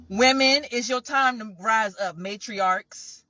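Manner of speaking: calls out "Women," loud to rally them; rallying cry to the women watching. Real, not acted. Calling out to women, loud.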